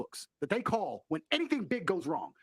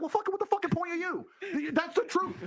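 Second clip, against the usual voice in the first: mock exasperated outburst; 10 semitones higher than usual. Girlfriend mocking a useless man, laughing. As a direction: laugh through an imitated girlfriend's disbelief. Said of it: "you'd be like".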